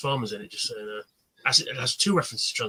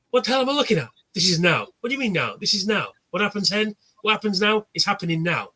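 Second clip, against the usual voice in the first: higher-pitched comic back-and-forth; mock bafflement; 4 semitones higher than usual. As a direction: lightly play two people confusing each other. Acting out baffled film exchange.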